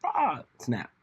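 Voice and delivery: high, slow mocking quote; hammed-up voice of his old self; mocking his old self. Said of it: "would have been like".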